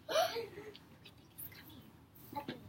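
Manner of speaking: gasping suspense. Shown as a demonstration. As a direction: pretend to be amazed for the kids.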